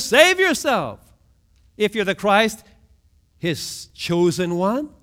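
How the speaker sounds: mild hammed-up jeer; mocking taunt. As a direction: throw the taunt up at him. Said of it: "they're scoffing".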